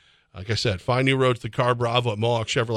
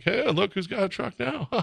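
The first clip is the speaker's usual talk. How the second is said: mock taunt; 8 semitones higher, 5 dB quieter than usual. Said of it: "he'll just be like".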